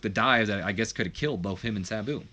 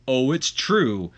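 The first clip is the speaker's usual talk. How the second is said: big smile; 2 semitones higher, 6 dB louder, much slower than usual. Acted. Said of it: "with a big smile on his face".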